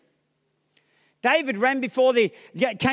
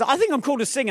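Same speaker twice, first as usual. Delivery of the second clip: deluded would-be singer; faster than usual. Acted. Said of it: "I'm not talking about being ridiculous".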